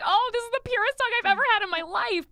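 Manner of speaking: high-pitched adoring gush. Retold or imitated. Aunt retelling a hug from her niece, gushing.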